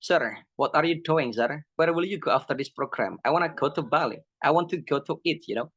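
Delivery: lightly imitated Madurese accent in English; mock Madurese-accented English, addressing a teacher. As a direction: speak English with a hint of Madurese. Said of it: "Dia bilang gini".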